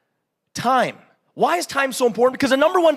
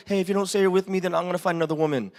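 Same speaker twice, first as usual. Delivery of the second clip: mock needy threat; 5 semitones lower, 4 dB quieter, much faster than usual. Mock clingy wife threat.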